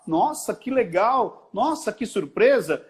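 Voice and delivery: lightly acted delighted surprise; mock amazement. Acting out amazed reactions.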